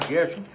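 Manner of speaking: "Gershwin" as Guéshin, Brazilian sounds; Brazilian pronunciation. Shown as a demonstration. Teacher reassures viewers this version is fine, Brazilian pronunciation. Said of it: "se você quiser falar".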